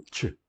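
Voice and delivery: "tch" as a short affricate; "tch", a t released into sh; affricate sound. Shown as a demonstration. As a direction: say "tch" like the start of English chair. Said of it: "ao som africano".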